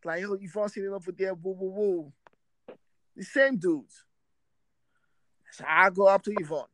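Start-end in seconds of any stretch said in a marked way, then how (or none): 0.2-2.1 higher, teasing woo woo; mock the friends' taunting chant; lightly voiced taunting friends; instigating friends.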